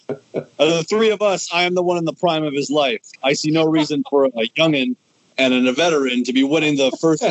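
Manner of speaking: wrestling promo. Pretend. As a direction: brag like a heel champion. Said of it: "cutting a promo".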